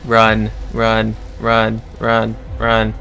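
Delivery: being chased. Real, not acted. Fleeing chainsaw killer in game.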